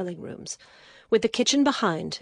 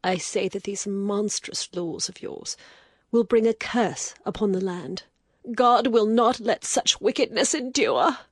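rising anger; 11 semitones higher than usual. Acted. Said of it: "the wild anger died away".

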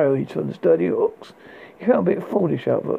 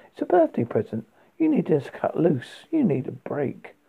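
patronizing. Acted. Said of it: "as if talking to a five-year-old".

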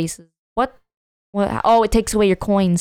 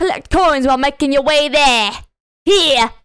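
higher-pitched put-on cockney; British accent; 4 semitones higher than usual. Reading game instructions to a friend, in mock cockney. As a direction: read it out as a broad British character. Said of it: "Why are you making her British?".

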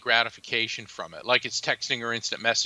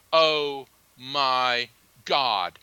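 very slow, stunned Oh my God; awed disbelief; much slower than usual. Retold or imitated. Stunned by vision of parents.

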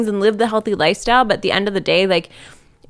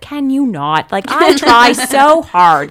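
whiny protest; 5 semitones higher, 8 dB louder, much slower than usual. Retold or imitated. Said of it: "And I'll be like".

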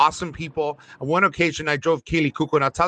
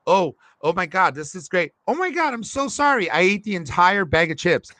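a pitched-up mock gush of embarrassment; imitating her apology; 4 semitones higher than usual. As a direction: gush the apology high and bright. Driver voicing actress's embarrassed apology.

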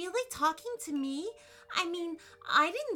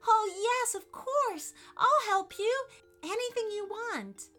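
high, loud, eager agreement; smiling eagerness; 14 semitones higher, 4 dB louder than usual. A narrator's reading. Allison offering the cat her help, eager and smiling. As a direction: jump at the chance to help, with a smile.

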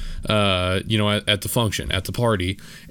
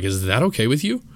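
aggressive reply; 2 semitones higher than usual. Retold or imitated. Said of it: "quick, aggressive reply".

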